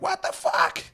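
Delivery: a stunned hunter, hammed up; whispered shocked hunter. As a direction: gasp it out in shock. Hunter voiced in story.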